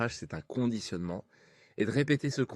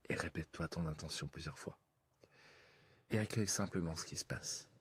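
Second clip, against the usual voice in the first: right in your ear. Acted. Leads a hypnosis session.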